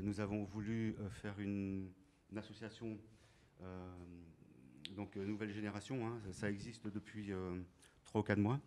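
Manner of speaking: muffled by a mask; speaking through a mask; through a face mask. Real, not acted. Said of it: "c'est pas facile de parler avec le masque".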